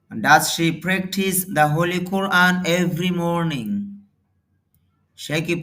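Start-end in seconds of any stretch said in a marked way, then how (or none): 0.1-3.7 slow model reading. Shown as a demonstration. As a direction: dictate it word by word for learners. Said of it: "teacher models English sentence slowly". (ধীরে ধীরে জোরে পড়া)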